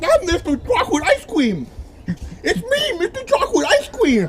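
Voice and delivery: goofy character voice. Acted. New character announcing himself.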